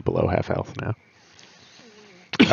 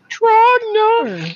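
huge booming high call; fighting game announcer; 5 dB louder than usual. Pretend. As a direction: bellow the name like an arena announcer. Calling out name, announcer style.

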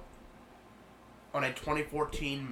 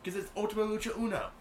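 high, fast, gleeful repeat; excited; 9 semitones higher, faster than usual. Real, not acted. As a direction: say the name with relish. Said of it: "How many times are you gonna say that?".

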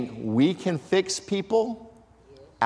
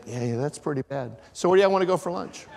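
mock dismissive; 3 dB quieter, faster than usual. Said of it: "God said he walked by somebody and said".

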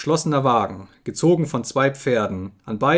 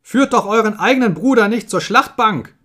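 high, loud plea; desperate calling; 9 semitones higher, 7 dB louder than usual. A narrator's reading. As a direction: beg them at full voice to stop. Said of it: "riefen sie".

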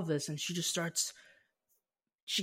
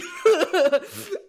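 high, loud giddy laugh; laughter; 13 semitones higher, 10 dB louder than usual. Retold or imitated. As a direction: let out a joyful peal of laughter. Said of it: "I just start laughing".

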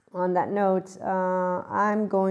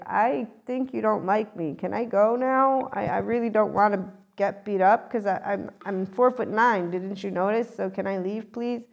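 timid pleading; 2 semitones higher than usual. Retold or imitated. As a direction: beg meekly to be excused. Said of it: "I'm just gonna be like".

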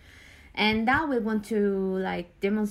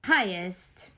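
one word at a time, with pauses; clipped single words, each one alone; staccato; much slower than usual. Shown as a demonstration. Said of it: "build the story one word at the time".

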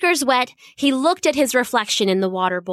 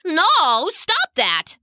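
sharp, higher command to stop; firm shout; 6 semitones higher, much slower than usual. Acted. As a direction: stop the dog firmly. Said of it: "the girl said".

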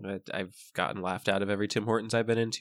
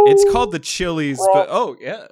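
breaking up laughing; 7 semitones higher, 12 dB louder than usual. Real, not acted. Cracking up mid-bit.

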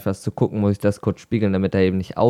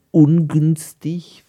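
mock whisper; 7 semitones higher, 9 dB louder, much slower than usual. Ironic understatement, slow whisper.

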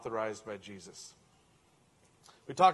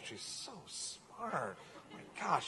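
laughing fondly; 3 semitones higher, 6 dB quieter, much slower than usual. Acted. Proud dad laughs over his toddler's answer. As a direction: chuckle through the words.

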